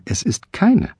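shrill contradiction. Acted. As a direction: squeak out the denial.

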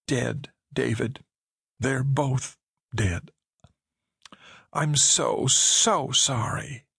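slow, hushed sorrow; gently sad. Acted. Woman telling David his parents died, slow and sorrowful.

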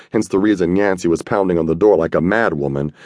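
plain reading voice

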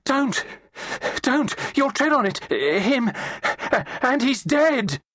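high, panicked scream. A narrator's reading. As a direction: scream a frantic warning in broken bursts. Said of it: "and then she screamed".

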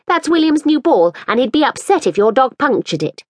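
lightly voiced fretful mother. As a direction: plead a little for the ball back. Woman character's voice.

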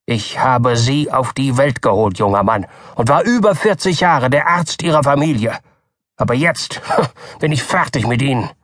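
cutting, angry doctor. A narrator's reading. Doktor Keene angrily breaks with the Button family. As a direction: dismiss him with scorn. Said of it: "antwortete der Doktor schneidend".

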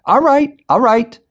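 very high, loud frantic yell. A narrator's reading. Manager yelling to stop the gunman, frantic shout. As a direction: yell in panic to stop him. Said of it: "a man in a suit yelled".

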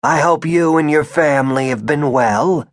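polite words with a touch of indignation; indignant. A narrator's reading. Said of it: "His indignation made his voice rattle".

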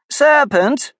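shrill high scream of Serpent. A narrator's reading. Angry pigeon screams at Alice as a serpent. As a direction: shriek the word at her. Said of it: "screamed the pigeon".

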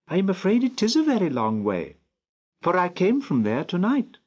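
put-on high child's voice, earnest and worried; a lost child explaining herself to an old gentleman; little girl, a bit afraid. A narrator's reading.

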